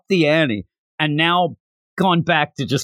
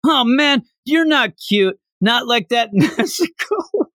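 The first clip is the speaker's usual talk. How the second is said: higher, hurt mock Zenitsu yelp; Zenitsu offended; 7 semitones higher than usual. Host voices Zenitsu after the bird bites him, higher mock hurt. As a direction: sound bitten and betrayed. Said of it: "so he kinda bites him".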